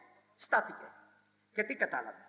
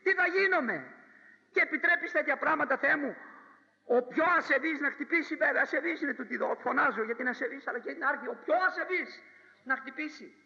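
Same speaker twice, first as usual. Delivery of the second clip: frightened protest; 5 semitones higher, 3 dB louder than usual. Acted. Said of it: "ο καημένος, εζάρωσε".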